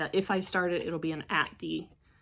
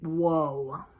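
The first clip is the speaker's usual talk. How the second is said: surprised whoa; 2 semitones lower than usual. Retold or imitated. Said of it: "And I went".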